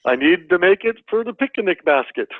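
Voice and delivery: light Yogi Bear impression; a touch of the cartoon bear. Shown as a demonstration. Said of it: "my Yogi Bear voice".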